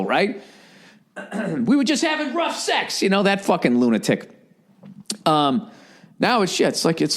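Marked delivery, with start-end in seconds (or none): 1.6-3.0 high, breathy mock killer excuse; mock psycho killer. Comic imitating a killer's excuse in a high voice. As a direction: squeak it out like an innocent lunatic.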